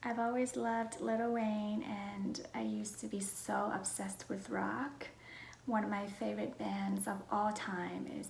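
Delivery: hushed, half-whispered self-introduction; soft-spoken vlog. Real, not acted. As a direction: talk gently, close to a whisper.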